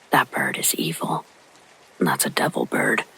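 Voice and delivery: hushed, fearful whisper; trembling whisper. A narrator's reading. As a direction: whisper it like a frightened old woman. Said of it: "With a trembling voice, my grandma whispered".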